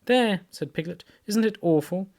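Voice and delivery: high, loud scared cry; frightened. A narrator's reading. Piglet clinging to Christopher Robin, high and frightened. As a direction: point it out in fright.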